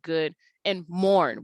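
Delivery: "good, and mourn" slowly, vowels drawn out; long sound. Shown as a demonstration. Teacher showing long sounds in the poem, drawn out. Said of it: "we have this long sound".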